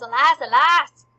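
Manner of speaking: loud, hammed-up lament; acting the King. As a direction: cry it out like a stage king. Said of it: "And the king goes".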